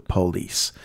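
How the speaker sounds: "police" as POH-lees; Southern first-syllable stress. Retold or imitated. Host imitates the audiobook reader, "police" stressed on PO. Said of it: "people who call them the".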